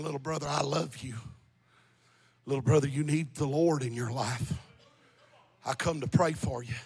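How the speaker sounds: hushed, low imitation of a weeping brother; low, subdued retold tearful plea. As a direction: plead softly and brokenly, as retold. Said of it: "he's crying".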